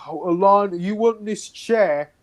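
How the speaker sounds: drawn-out mock courtesy; a touch of a sneering guard; mocking guardsman. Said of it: "and he's like".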